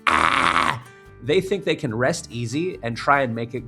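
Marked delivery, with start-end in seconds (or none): 0.1-0.8 distorted scream. Shown as a demonstration. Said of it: "found the right distortion".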